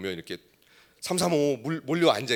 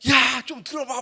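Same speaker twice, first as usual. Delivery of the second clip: much higher, louder yell for attention; raised voice; 13 semitones higher, 7 dB louder, slower than usual. Retold or imitated. Youth pastor yelling at chattering students to listen, loud. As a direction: shout over a noisy crowd of teens. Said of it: "목소리가 커지고 막".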